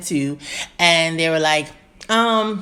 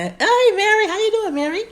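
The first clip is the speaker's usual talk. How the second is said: excited; 3 dB louder than usual. Real, not acted. Greeting viewer joining live.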